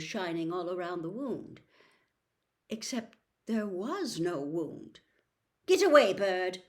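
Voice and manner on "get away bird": loud barked order; sudden shout. A narrator's reading. Riddle shouts at the phoenix to get away. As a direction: shout the bird off. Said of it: "said Riddle's voice suddenly".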